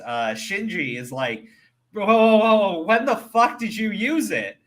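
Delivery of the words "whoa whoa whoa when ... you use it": high, startled mock outburst; pitched-up retold shock; acted alarm. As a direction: act out someone caught off guard, loud then easing. Acted startled reaction of Shinji.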